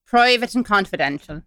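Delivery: put-on Irish accent; mock-official Irish email heading. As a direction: announce it with an Irish lilt. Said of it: "doing this in an Irish accent".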